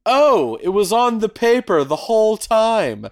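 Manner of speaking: hammed-up cartoon discovery, breaking into a laugh; Scooby-Doo ending reveal. Podcaster mocking an easy cartoon mystery ending, exaggerated amazement. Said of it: "a Scooby-Doo episode where they're just like".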